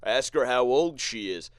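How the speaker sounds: loud, cocky taunting voice; mocking the dude. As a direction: egg him on, loud and smug. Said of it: "He's like".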